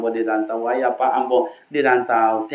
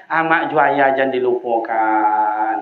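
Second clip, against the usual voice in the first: normal talking voice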